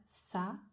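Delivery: SAFARI in three separate beats, sa, fa, ri; syllable by syllable. Shown as a demonstration. Teacher counting three syllables, SAFARI broken apart. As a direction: pause after each syllable of SAFARI. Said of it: "On a trois syllabes".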